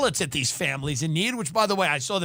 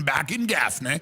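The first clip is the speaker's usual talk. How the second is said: lightly lower, repeated folksy line; father's saying; 3 semitones lower than usual. Retold or imitated. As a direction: say it again like dad's catchphrase. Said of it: "My father had a saying".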